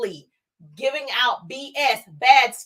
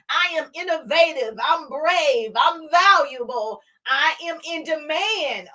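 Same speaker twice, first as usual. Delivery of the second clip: slightly raised, slow, firm I am declarations; lightly lifted, deliberate self-affirmation; confident affirmations; 3 semitones higher, slower than usual. Shown as a demonstration. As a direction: claim each I am like it's already true. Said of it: "Start off with "I am".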